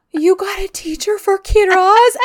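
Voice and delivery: high-pitched eager question, imitated; sudden change of tune. Jealous woman learning she's a teacher, suddenly high and eager. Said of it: "The way her tune changes so quickly".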